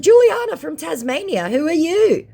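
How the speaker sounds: high, loud bright put-on voice; playing a fake Tasmanian woman; put-on persona voice. Her fake persona reply.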